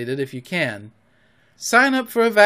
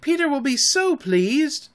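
high, shrill egging-on; high-voiced fairy cry; screamed; 10 semitones higher than usual. A narrator's reading. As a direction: urge him on, pitched way up. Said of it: "she screamed".

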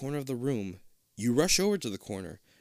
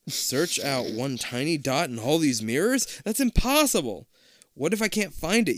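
disbelieving protest; 3 semitones higher, 4 dB louder than usual. Acted.

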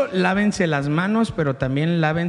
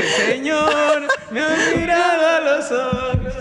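awed high voice; 8 semitones higher than usual. Retold or imitated. Retold awed inner thought.

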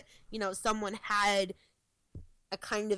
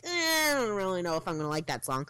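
doubtful reaction. Retold or imitated. Quoting doubtful listeners unsure about a song, hesitant. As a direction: voice their hesitant reluctance.

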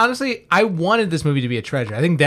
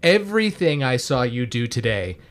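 retold grave line; 3 semitones lower than usual. Quoting a grave movie threat.

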